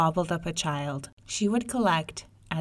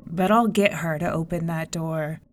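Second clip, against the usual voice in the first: grumbling tigress; 4 dB louder than usual. Acted. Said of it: "grumbled the tigress".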